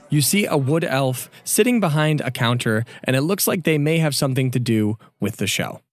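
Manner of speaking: measured, deliberate narration; game master's scene setting. A narrator's reading. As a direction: paint the scene phrase by phrase.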